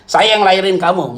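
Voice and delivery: the parent's words through laughter; laughing mock parent. Pastor mocks a stubborn mother, laughing. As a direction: laugh while quoting mom. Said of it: "Eh, dia bilang ini".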